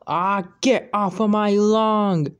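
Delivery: high, loud angry yell. Acted. Grumpy old man yelling at girl on his lawn. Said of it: "He yelled".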